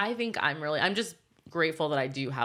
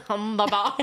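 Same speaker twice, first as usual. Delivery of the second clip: laughing; 3 semitones higher than usual. Pretend. Joking Aussie line, laughing.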